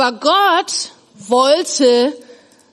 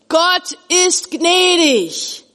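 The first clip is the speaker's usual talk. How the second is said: "Gott ist gnädig" high, slow and drawn out; emphatic proclamation; 6 semitones higher, much slower than usual. Shown as a demonstration. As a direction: stretch out "gnädig" with a falling tune. Teacher proclaims the name's meaning. („Gott ist gnädig“ langsam, feierlich betont)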